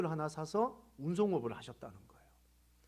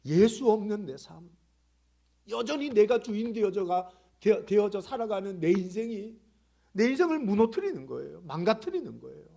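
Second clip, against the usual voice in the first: loud, higher-pitched sermon climax; forceful preaching; 5 semitones higher, 9 dB louder than usual. Real, not acted. Preacher warning the congregation about life without Jesus, forceful. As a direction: drive each phrase home from the pulpit.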